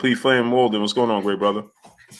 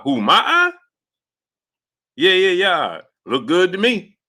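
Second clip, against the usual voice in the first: much higher put-on voice, puzzled then breezy; imitating Errol; 8 semitones higher than usual. Retelling Errol's answer about his eye, high mock voice. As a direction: play Errol shrugging off the eye question. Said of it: "that's what he said".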